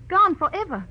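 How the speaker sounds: GONE hit high and loud; dramatic emphasis. Acted. Client warns detective about losing the jewels, dramatic emphasis. Fearing the jewels are lost.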